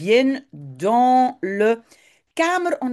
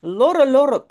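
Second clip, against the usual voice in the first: loud, high squawking parrot call; 6 semitones higher, 6 dB louder than usual. Acted. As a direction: screech lorre lorre like a parrot. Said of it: "C'est le perroquet qui le dit". (cri de perroquet fort et aigu)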